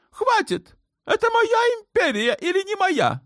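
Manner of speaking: put-on a shrill-free but very high, raging young sultan. A narrator's reading. Sultan demanding war on Malta from his mother, high raging voice.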